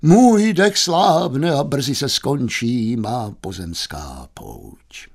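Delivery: slow theatrical dying speech; declaiming. Acted. Youth reciting his own death, slow grand declamation. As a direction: declaim grandly, fading to a whispered last word.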